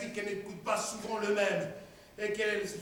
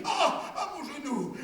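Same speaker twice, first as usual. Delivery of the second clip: cry of pain; 3 semitones higher than usual. Acted. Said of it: "je m'écrie".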